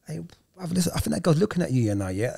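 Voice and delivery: over-exaggerated banter. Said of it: "on purpose, I would over-exaggerate".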